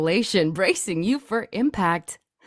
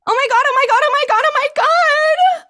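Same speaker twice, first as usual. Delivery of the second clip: much higher, louder shrieks of terror; a frightened woman screaming as gunmen burst in; stammering terrified scream; panicked screaming; 8 dB louder, much faster than usual. Acted. Bystander screams at shooting.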